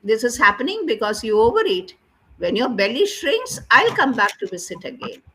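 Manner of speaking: lightly voiced rabbit; rabbit's dialogue voice. Teacher reads what the rabbit said, rabbit's dialogue voice. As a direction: deliver it as spoken dialogue, changed tone. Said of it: "you have to change the tone of that voice".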